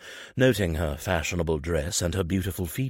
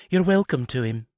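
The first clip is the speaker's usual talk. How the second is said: dismissive Imogen; 6 semitones higher, 4 dB louder than usual. Acted.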